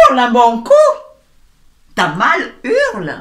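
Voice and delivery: high, loud yell of an order; shouted command. Retold or imitated. Life yelling at the hurt person, loud shout. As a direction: bellow it at them to let it out. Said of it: "elle fait".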